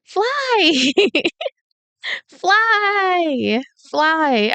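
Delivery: high, loud, drawn-out yell; yelling character voice. Acted. Reader trying out Sayoko's yelling voice, high drawn-out yell. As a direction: call it out long and high. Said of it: "what Sayoko's yelling voice should sound like".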